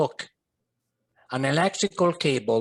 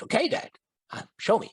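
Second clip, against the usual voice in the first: put-on higher, quick teen reply; young son; 9 semitones higher, faster than usual. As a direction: answer like a boy. Teen self answering father.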